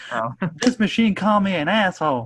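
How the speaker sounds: exaggerated, high hammy voice. Retelling a man's reaction after the computer screen insults him: exaggerated Jordy Verrill voice. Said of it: "exaggerated acting voice that he puts on".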